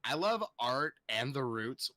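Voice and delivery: put-on bubbly Valley Girl read. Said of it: "I'm gonna read it like a Valley Girl".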